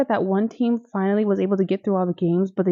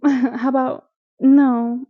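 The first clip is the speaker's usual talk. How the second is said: laughing sass; 4 semitones higher, 5 dB louder, much slower than usual. Real, not acted. Mocking the refusal, laughing.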